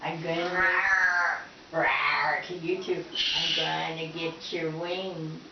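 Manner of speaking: low, slow mock growl; playful monster growl. Growling at pet bird.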